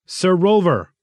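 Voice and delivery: high, anxious call. A narrator's reading. Thistle hailing Rolver at the office, calling anxiously. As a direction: call out with a touch of anxiety. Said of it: "Thistle called out anxiously".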